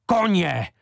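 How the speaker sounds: the second "Koně!" is high, loud and falling; fierce outcry repeated. Acted. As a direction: hammer the word home again. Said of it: "se proměnil ve lva". (opakovaný prudký výkřik)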